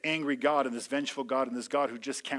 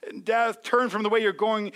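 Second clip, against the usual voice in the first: much higher, louder, slow urgent cry; God voiced as a desperate shout; pleading shout; 9 dB louder than usual. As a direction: plead with the wicked to turn. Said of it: "he just starts screaming".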